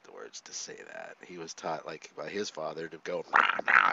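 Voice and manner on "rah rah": mimicked barking growl, breathy and loud; mock snapping. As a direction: bark it like a snapping dad. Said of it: "and snap at you".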